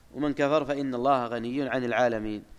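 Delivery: normal talking voice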